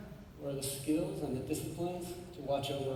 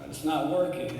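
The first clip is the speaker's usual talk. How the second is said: put-on boy's line; 6 dB louder than usual. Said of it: "he says".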